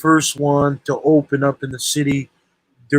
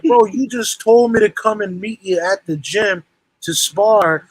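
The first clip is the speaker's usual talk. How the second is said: higher, aggrieved retort; retold protest; 5 semitones higher than usual. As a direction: re-enact arguing with the guy who cancelled. Retells protest at cancelled sparring.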